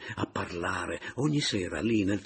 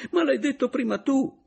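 high, loud exasperated protest; peak of annoyance; 8 dB louder than usual. A narrator's reading. Adriana protesting at Caporale, high exasperated retort. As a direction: snap back, fed up. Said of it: "protestò Adriana al colmo della stizza".

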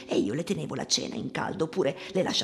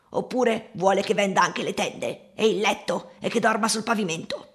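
higher, louder sarcastic protest; acted outrage, rising in pitch; indignant retort; 5 semitones higher, 5 dB louder than usual. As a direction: throw the absurd demand back at him. Mother retorts to the inspector.

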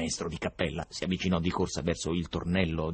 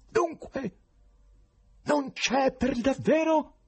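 high, slow, severe demand; stern shout; 4 dB louder, slower than usual. Acted. Professor suddenly irritated, shouting sternly at the writers. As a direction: snap at them, suddenly irritated. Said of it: "si irritò e gridò con severità".

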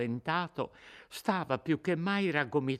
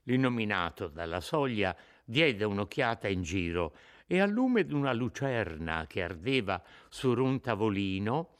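ordinary delivery, nothing marked

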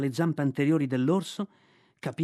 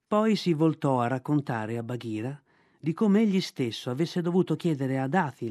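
usual speaking voice

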